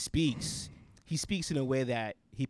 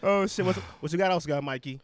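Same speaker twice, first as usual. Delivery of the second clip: laughing; 4 semitones higher than usual. Real, not acted. Laughing, high on weed.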